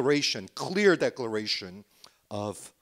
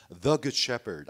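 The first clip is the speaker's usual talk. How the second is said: "the" stressed before "Good Shepherd"; emphasis on THE; 4 dB louder than usual. Real, not acted. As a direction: lean firmly on "the" in "the Good Shepherd". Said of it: "also emphasizing".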